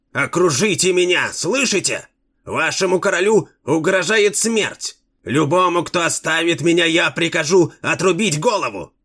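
very high, panicky king voice; shrill squeal. A narrator's reading. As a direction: shriek orders in terror, up high. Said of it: "пронзительно завизжал Римонендо".

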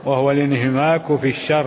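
measured classical Arabic text reading; deliberate recitation of a commentary, phrase by phrase; formal read-aloud. Acted. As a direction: read the scholarly text out evenly.

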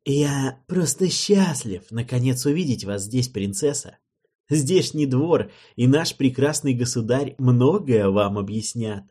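sneering, exaggerated courtesy; bow and mock him sweetly; mocking politeness. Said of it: "поклонившийся с издевательской любезностью".

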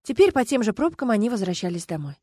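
plain reading voice

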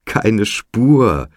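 elated, full-voiced exclamation; ecstatic cry. A narrator's reading. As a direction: cry out, beside yourself with glee. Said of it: "schrie Mac, außer sich vor Entzücken".

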